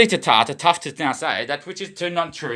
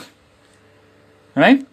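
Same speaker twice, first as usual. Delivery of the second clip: drawn-out catchphrase; 8 semitones higher, 6 dB louder, much slower than usual. Pretend. Stretched repeat of catchphrase to camera.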